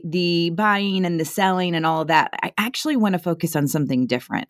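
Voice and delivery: even, conversational sponsor read; podcast ad read. Real, not acted. Host pausing the conversation for a sponsor, ad read. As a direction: deliver a smooth, personal sponsor message.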